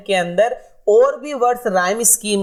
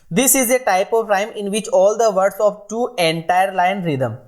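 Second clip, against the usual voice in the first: slow dictation; much slower than usual. Shown as a demonstration. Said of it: "teacher reads definition slowly".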